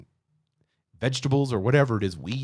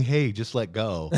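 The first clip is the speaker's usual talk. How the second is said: booming God voice; slower than usual. Acted. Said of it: "God's booming a voice".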